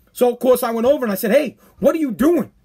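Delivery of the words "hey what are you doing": a questioning "doing" with a mild mock edge; confronting yell. Host retelling confronting the cracker eater, mild mock yell. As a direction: call him out on the crackers. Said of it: "I was yelling at this guy".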